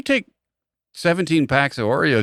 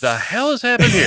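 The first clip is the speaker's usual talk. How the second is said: high-pitched British exclamation; Englishman's startled squawk; British accent; 8 semitones higher than usual. Acted. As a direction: put on a baffled British voice. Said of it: "change your tone".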